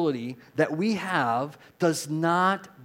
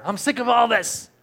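high, loud exasperated yell; acted shout of frustration, pitch way up; fed-up outburst; 10 semitones higher, 9 dB louder than usual. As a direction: throw it out like you've had enough. Acting people fed up at TV.

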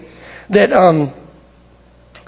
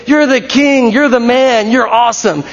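higher, acted-out fan praise; crowd acclaim; 4 semitones higher than usual. Crowd running towards Jesus, excited praise. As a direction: hail him as an admiring crowd would. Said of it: "they're not saying".

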